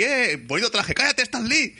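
a hint of a cartoonish quip; light character voices. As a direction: toss off the banter in a silly voice. Voicing Stan Lee and Deadpool.

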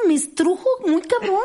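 high, strained, touched; moved. Real, not acted. Telling how dogs wring her heart, strained. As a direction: squeeze out the feeling. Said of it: "me siento".

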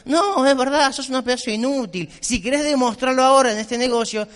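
blunt tough love. Acted. Respuesta dura a la chica.

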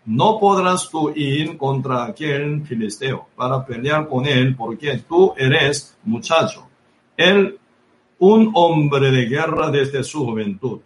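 slow verse reading, deliberate phrasing; scripture reading. A narrator's reading. Preacher reads Saúl's answer to young David, slow scripture reading. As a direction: read it out slowly, phrase by phrase.

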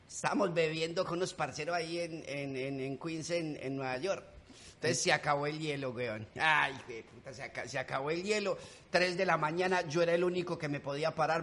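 swagger through it like a Medellín malandro telling his story; Medellín street-kid character. Acted. Comedian slips into his street character for the deportation joke, brash. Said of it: "Ese es el puntudo".

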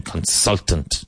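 CONSULTANT with the stress on SUL; careful pronunciation. Shown as a demonstration. Teacher modelling a tricky word for learners, careful "Consultant". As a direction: model "Consultant" clearly, weak first syllable, strong second. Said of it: "be careful of the pronunciation".

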